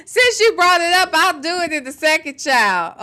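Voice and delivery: a playful fake cry; mock crying. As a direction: pretend to be on the verge of tears, begging. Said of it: "And then I'ma cry".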